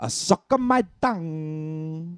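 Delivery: put-on very slow accent, sounds drawn out. Retelling what he said to a kid, imitating the Dalai Lama's accent. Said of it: "That's how his accent sounds to me".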